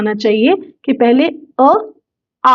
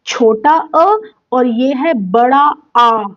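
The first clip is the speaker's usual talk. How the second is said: put-on slow child's rote; slower than usual. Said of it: "बच्चे को दिमाग में लगता है".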